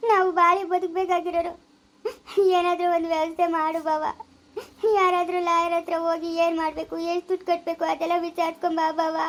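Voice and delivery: tearful begging; crying plea. Acted. Wife begs brother-in-law to see a lawyer, crying. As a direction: plead through tears for help. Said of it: "ಆಯ್ತಮ್ಮ, ಅಳ್ಬೇಡ".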